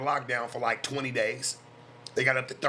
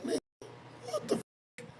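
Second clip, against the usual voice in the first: shocked disbelief; 8 dB quieter than usual. Retold or imitated. Retelling his shocked reaction.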